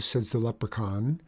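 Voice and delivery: plain reading voice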